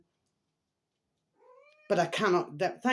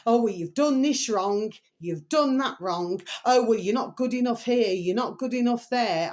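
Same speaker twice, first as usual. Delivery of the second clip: louder mock scolding of someone who finds fault; a hint of a nagging critic; 4 semitones higher, 4 dB louder than usual. Imitating people who judged her, mock scolding. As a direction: lightly voice a fault-finding nag.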